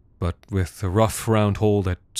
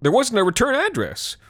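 sullen defensive; 14 semitones higher than usual. Acted. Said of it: "sullen and defensive".

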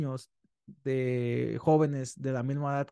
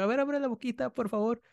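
sweet coaxing; 8 semitones higher than usual. Retold or imitated. Dentist voices herself to child.

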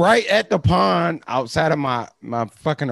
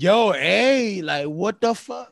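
voicing the dog; 5 semitones higher, 4 dB louder than usual. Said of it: "he like".

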